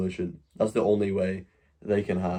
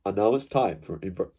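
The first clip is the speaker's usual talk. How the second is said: nasal BBC announcer, nose held; pinched nose; 2 semitones lower, 3 dB quieter than usual. Retold or imitated. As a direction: say it holding your nose shut. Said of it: "if you hold my nose".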